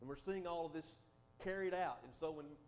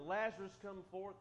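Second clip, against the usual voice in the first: a louder call of "Lazarus, come forth"; crying out; 3 semitones higher, 5 dB louder than usual. Acted. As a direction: summon him out with a raised voice. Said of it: "by crying".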